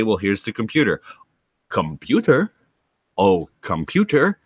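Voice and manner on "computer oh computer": lightly voiced puzzled engineer; imitating Scotty. Scotty addresses a computer, lightly voiced and puzzled. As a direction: talk to the machine as if it listens. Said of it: "he's like".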